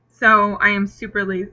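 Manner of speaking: speaking with the hiccups. Real, not acted. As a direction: hiccup cuts the word off. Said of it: "excuse me, I have the hiccups".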